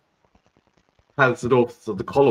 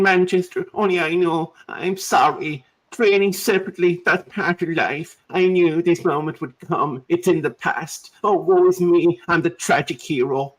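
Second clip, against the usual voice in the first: hammed-up tearful whine, a touch higher; mock a footballer weeping at his farewell; mock crying Antony; 5 semitones higher than usual. Host mocks Antony's tearful speech, whiny. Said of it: "mimicking a man crying".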